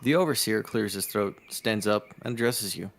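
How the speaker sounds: measured storyteller reading; game master's descriptive read; game story narration. A narrator's reading. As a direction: narrate the scene evenly to the players. Reads the game's scene aloud.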